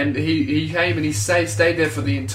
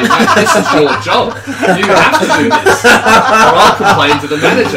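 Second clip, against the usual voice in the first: loud, high, slowed mock ultimatum; mock demand; 6 semitones higher, 11 dB louder than usual. Telling a friend how to pressure a stripper, loud mock demand. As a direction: play a pushy complaining customer, loud and high.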